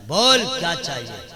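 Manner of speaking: loud, high burst of mock fervour; hammed-up excited husband; worked-up husband. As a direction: blurt out a grand offer to the weeping wife. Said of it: "پھر جوش میں آتا کہتا ہے".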